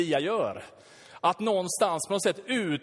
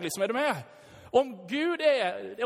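ordinary talk, nothing marked

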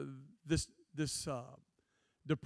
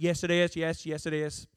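put-on a light redneck accent as Jesus; a hint of a redneck Jesus; 5 dB louder than usual. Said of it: "Jesus got a redneck accent".

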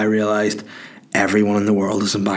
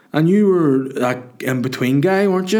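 higher, put-on punter voice; drunk young fella; 6 semitones higher than usual. Drunk fella quizzing the comedian in the queue, high mimicry. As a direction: imitate a drunk fan, lifting into the question. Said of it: "a quote that he goes to me".

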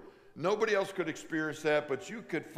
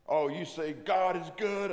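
put-on higher, louder sceptical girl; mock sceptical girl, a touch higher; scowling girl; 4 semitones higher, 4 dB louder than usual. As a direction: challenge him like a wary teen. Scowling girl challenges speaker.

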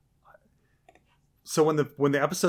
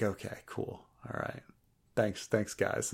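mumbled dismissal; 3 semitones lower, 12 dB quieter than usual. Retold or imitated. Favreau voiced dismissively.

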